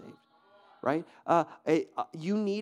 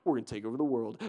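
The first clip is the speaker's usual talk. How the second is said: mock ambitious mouse; 4 semitones lower, faster than usual. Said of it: "this little mouse is like".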